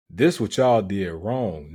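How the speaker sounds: firm imitation of a commanding speaker. Showing how Trump says it, mildly commanding. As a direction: lay down the blame with authority. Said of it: "like, commanding".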